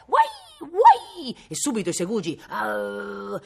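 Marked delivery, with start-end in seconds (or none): 0.1-1.4 very high, loud dachshund whines; piercing imitated puppy yelp; crafty dog yelps. A narrator's reading. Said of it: "degli uggioli di furbizia". 2.5-3.4 drawn-out growl of a hound; imitated pack snarl; dog snarl. A narrator's reading. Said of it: "gli ringhiarono".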